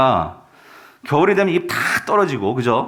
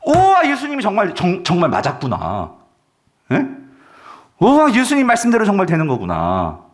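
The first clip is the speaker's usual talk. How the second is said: amazed reaction. Acted. Preacher voicing believers who saw Jesus' words come true, amazed. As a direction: marvel aloud as the believers would. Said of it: "어떤 반응이 나타나겠어요?".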